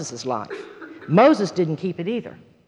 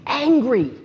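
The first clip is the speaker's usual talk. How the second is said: drawn-out emphasis on so angry, higher pitch; retold anger; 4 semitones higher, slower than usual. Woman recalls punching her pillow in rage, retold anger. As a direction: lean slowly and hard into "so angry". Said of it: "I was so angry".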